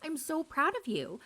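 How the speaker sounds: put-on high, fast, gushing boyfriend voice; hyping girlfriend up. Boyfriend hyping up his girlfriend's new salon, high and gushing. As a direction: gush over her like a proud fiancé. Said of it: "he really hypes her up".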